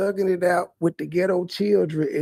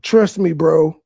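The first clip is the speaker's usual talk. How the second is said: louder, cocky sales pitch; mock trust me bro; 2 semitones lower, 5 dB louder, slower than usual. Commentator mocking the streamer's shady deal, loud and cocky. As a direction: sell it loud like a slick hustler.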